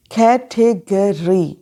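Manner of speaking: कैटेगरी split slowly into कै, टे, ग, री; कैटेगरी very slow, a small gap after each syllable. Shown as a demonstration. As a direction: say कैटेगरी in four separate beats. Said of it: "खे ए sound".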